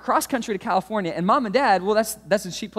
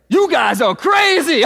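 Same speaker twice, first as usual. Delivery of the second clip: slow, loud and higher toy catchphrase; zebra toy voice; 7 semitones higher, 7 dB louder, slower than usual. Retold or imitated. Pastor replaying the toy startling him in the car, slow loud shout. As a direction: boom it like a voice out of nowhere. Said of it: "I hear this voice from behind me".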